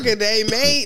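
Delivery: mock Australian. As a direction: toss out a playful Aussie greeting. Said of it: "That's hella Australian".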